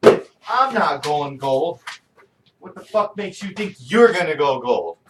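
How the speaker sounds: slow, loud, fed-up refusal; loud disbelieving rant; exasperated. Real, not acted. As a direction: lay it down like an annoyed parent. Angry rant about son's purchase.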